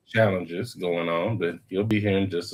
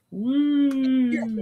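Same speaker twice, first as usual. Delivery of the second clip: excited whoop. Real, not acted. Showing off a figure.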